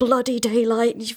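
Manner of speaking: high grumbling mutter. Playing Ezra climbing down a tight ladder in a game; grumbling to themselves. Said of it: "grumbling to themselves".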